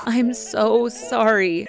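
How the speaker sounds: slow, tearful apology; weeping. Retold or imitated. Mother weeping to her daughter, slow and tearful. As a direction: weep through it. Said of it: "I wept pitifully".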